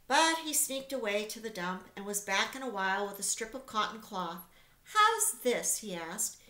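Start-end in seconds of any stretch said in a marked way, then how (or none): 4.8-5.8 higher, louder rat asking; hammed-up rat pushing his find. A narrator's reading. Templeton asks again.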